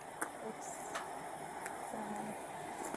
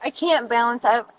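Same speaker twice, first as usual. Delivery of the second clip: slurred speech. Real, not acted. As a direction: talk like you've had too many. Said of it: "your slurring your words".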